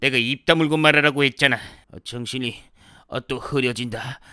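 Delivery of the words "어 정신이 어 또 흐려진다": soft, slow, drifting away; fainting. Acted. Man losing consciousness from the stench, weak and fading. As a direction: let the voice sink into a faint groan.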